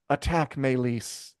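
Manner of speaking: slow, understated sad command; dejected. Retold or imitated. Retelling her last order to her dragon, mildly dejected. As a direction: give the order with mild dejection. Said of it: "in kind of a dejected, sad way".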